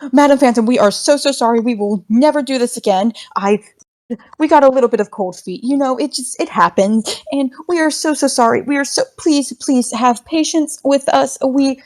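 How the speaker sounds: lightly voiced, apologetic ghost; a nervous little ghost pleading sorry.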